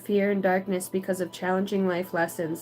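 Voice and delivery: measured spiritual reading; read-aloud card message. Acted.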